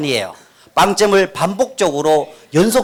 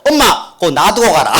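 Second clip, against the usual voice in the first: cheeky reply; 2 semitones lower than usual. Retold or imitated. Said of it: "그랬죠?".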